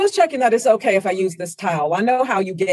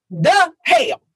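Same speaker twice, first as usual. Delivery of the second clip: shocked; 9 semitones higher, 4 dB louder than usual. Acted. Kicks door, sees affair.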